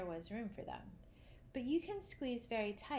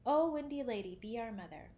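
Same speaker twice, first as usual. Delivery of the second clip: fervent plea; 2 semitones higher, 6 dB louder than usual. Acted. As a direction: beg on their knees.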